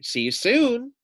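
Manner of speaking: high, sing-song little lamb; cheery lamb goodbye. Acted. Lamb escaping the wolf, high cheery farewell. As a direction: call it back over your shoulder, running off. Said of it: "she said as she ran off".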